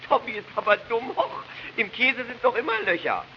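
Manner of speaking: put-on high, scornful little girl; child voice. Sister mocking brother at table, high childish scorn. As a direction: talk down to your brother like a kid.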